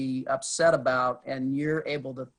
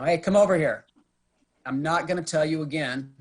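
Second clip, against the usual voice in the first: an officer barking at a civilian to come over; commanding call; 2 semitones higher, 4 dB louder than usual. Shown as a demonstration. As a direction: call them over with authority. Cop ordering someone over.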